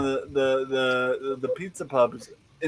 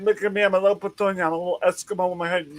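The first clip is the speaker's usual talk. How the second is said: put-on higher, teasing little-girl voice; playful kid voice; 4 semitones higher, much faster than usual. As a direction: play the cute little Petunia in her coat to make her laugh. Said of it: "a quick little joke to make her smile".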